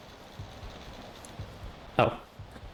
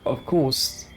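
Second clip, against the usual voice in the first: ghostly gardener voice. Acted. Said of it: "the ghostly voice of a headless gardener".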